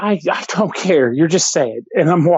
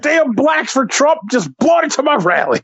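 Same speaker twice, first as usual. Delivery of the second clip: mock Trump; 7 semitones higher than usual. Mocking Trump's excuse.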